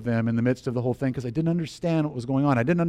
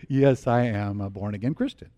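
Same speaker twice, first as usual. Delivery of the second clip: lightly imitated comedian voice, lower; a hint of a celebrity impression; Eddie Murphy; 5 semitones lower, 4 dB quieter than usual. Student answering young woman about faith, light impression. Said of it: "did the Eddie Murphy".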